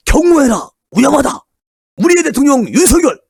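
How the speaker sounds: imitating supporters crying out, pitched high; mock rally shouting. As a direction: cheer like a frantic fan. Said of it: "막 이러고 난리가 났었다는".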